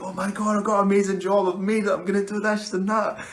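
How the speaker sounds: high, loud gushing voice; mock a newbie actor who thinks they've made it; squealing over-the-moon actor impression; giddy bragging actor. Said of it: "so many people who are like".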